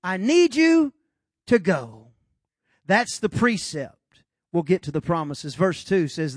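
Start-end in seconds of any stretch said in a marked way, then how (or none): 0.0-2.1 God's plain-spoken loud command; blunt short version. Shown as a demonstration. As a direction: call Abram out, loud and to the point. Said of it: "In short, I'd say it like this".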